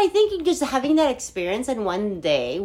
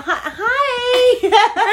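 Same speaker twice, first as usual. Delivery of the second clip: high, louder hello through laughter; mock friendly greeting; 12 semitones higher, 5 dB louder than usual. Therapist covers not knowing a client, mock friendly greeting. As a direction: fake recognition with a laughing, high-pitched hi.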